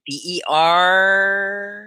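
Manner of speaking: spelling it out letter by letter, slowly. Shown as a demonstration. Teacher slowly spelling a word for students.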